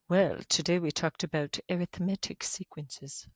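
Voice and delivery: lightly put-on British accent; a hint of playful British accent; mock British accent. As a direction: pretend student answering in affected British English. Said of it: "should have a British accent when you say that".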